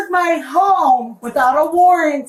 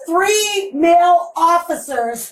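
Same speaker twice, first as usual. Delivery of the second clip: crying. Real, not acted. Upset woman during arrest.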